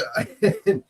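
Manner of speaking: soft laugh breaking into a cough. Real, not acted. Host losing the thread mid-recap, laughing and coughing. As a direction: chuckle through a cough. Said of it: "that's laughing and coughing".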